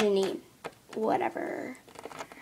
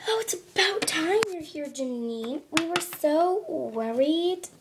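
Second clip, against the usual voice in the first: gushing; 4 semitones higher than usual. Acted. Friends gushing.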